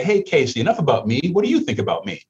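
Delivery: lightly voiced party bore, pitch jumping up; a hint of a smug party guest; mock self-absorbed guest. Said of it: "and I say".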